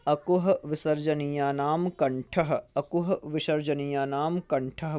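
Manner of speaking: steady recitation repeated twice; repeat for students. Shown as a demonstration. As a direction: say it again so they can memorise. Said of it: "फिर से सुने".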